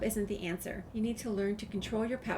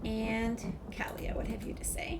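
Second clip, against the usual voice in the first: whispered aside. Real, not acted. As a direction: murmur it like an aside. Player whispers dialogue choice.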